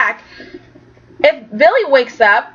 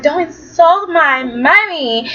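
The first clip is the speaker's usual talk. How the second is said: higher, slow mock protest; drawn-out, higher imitation of an offended daughter; 4 semitones higher, slower than usual. Recapping a daughter defending her mommy, in mock protest.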